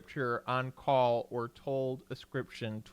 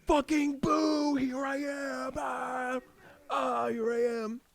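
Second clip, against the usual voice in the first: mock ghost boo; 13 semitones higher, slower than usual. Teasing gamer friend playing a ghost sneaking up, mock spooky shout. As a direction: jump out and boo like a hammy ghost. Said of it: "instead of running up behind me and being like".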